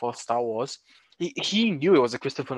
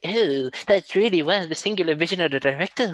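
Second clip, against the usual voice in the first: pretentious; 4 semitones higher than usual. Retold or imitated. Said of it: "it can sound a bit pretentious".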